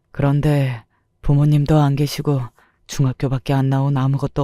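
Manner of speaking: lightly voiced husband, subdued and regretful; understated, even-toned male confession; confessing husband. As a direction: confess the past haltingly.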